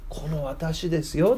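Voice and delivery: slow, soft declaration; a hint of Jesus claiming the truth, slowly; Jesus declaring. Jesus tells the Pharisees he knows the truth, slow and soft. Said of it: "ってイエス様が言いたかった".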